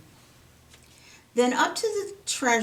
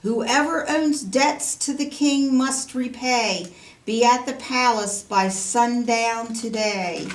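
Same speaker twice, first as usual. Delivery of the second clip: proclamation shout; 3 semitones higher, 4 dB louder than usual. Acted. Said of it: "and shout".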